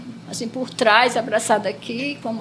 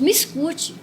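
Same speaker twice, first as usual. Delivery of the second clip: more energetic, firm reply; Jesus. Retold or imitated. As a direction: insist energetically, as if to be heard. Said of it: "mais enérgico".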